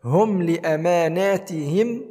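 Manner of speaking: هم ended cleanly, then slow لأماناتهم; short m in هم, no humming before the next word; clear unheld meem. Shown as a demonstration. Teacher corrects the mistake, هم with clear meem. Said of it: "بل".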